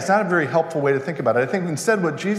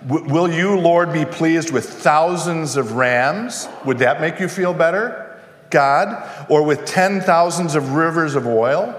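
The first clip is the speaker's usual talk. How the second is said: put-on bratty child. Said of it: "They're acting like petulant, immature, bratty children".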